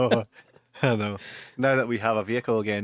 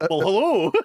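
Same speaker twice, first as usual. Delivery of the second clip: loud, raised, forceful greeting; big forceful hello; 7 semitones higher, 6 dB louder than usual. Retold or imitated. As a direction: push the greeting out hard and high. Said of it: "you're so forceful".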